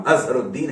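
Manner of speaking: अजहरुद्दीन with sounded h and long held deen; correct Urdu pronunciation. Shown as a demonstration. Teacher showing how an Urdu speaker says it, अजहरुद्दीन with full h and long deen. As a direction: say अजहरुद्दीन as az-har-ud-DEEN, double d. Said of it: "कोई गलती नहीं करेगा".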